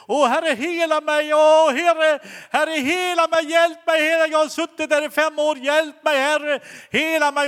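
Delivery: high, loud, pleading cry for help; imitated wailing. Woman in wheelchair begs God for healing, imitated wailing scream. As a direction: act out a woman almost bawling to God. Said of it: "nästan bölade och skrek".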